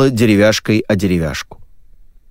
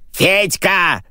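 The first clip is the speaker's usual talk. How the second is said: much higher shout from off stage; call from backstage; 10 semitones higher than usual. Acted. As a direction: yell for Fedka from the wings. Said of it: "закричали из-за кулис".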